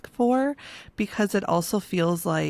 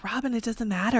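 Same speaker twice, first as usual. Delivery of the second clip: lilting, higher acted reassurance; reassuring friend; 4 semitones higher than usual. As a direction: play a friend waving off the worry. Imagined friends reassuring her.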